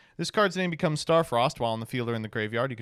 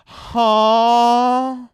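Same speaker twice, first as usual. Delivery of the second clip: loud, very high drawn-out "huh"; startled; 11 semitones higher, 14 dB louder than usual. Real, not acted. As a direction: blurt out disbelief, high and held. Startled by a card's effect.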